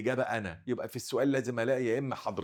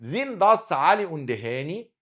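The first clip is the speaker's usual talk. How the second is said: slow reading; 5 semitones higher, 4 dB louder, much slower than usual. Shown as a demonstration. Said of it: "these are أو these are يعني".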